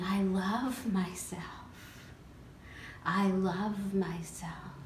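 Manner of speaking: soft, very slow mantra; meditative affirmation. Acted. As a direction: draw each word out gently.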